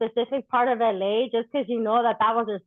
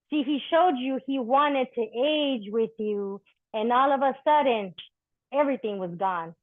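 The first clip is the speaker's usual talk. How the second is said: measured, rhythmic poetry reading; spoken-word poem. Acted. Poet reading to a live audience, rhythmic spoken-word delivery. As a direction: let each line land like a verse on stage.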